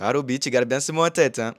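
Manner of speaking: imitating the Brazilian coach with a lilting accent. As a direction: Brazilian coach in a sing-song Brazilian accent warns Roby. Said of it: "c'est un accent un peu chantant".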